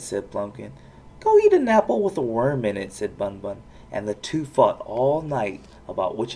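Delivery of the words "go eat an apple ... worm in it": angry retort. A narrator's reading. Ponies quarrelling.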